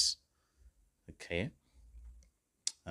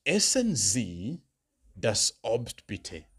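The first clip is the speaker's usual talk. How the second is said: slow, raised German request; slow model request; 2 semitones higher, 4 dB louder, much slower than usual. Shown as a demonstration. Teacher modelling a polite request, slow and raised. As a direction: ask it slowly and clearly. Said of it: "the last request I could give".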